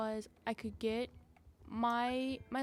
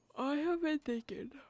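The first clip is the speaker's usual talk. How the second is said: pitched-up words spoken through a yawn; 5 semitones higher, 3 dB louder than usual. A rider chatting about riding plans breaks off, yawning mid-sentence. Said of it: "I'm yawning".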